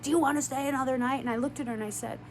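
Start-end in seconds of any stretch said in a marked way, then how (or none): 0.0-1.2 fast retold yell, barely raised; mild mock yell. Asking a guest about staying another night, in a quick mock yell. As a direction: imitate her yelling in a quick, pushy burst. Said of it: "like, yelling, she's like".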